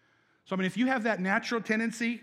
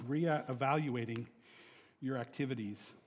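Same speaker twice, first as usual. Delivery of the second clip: slow emphasis; 5 semitones lower, 3 dB quieter than usual. Shown as a demonstration. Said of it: "repeated slowly".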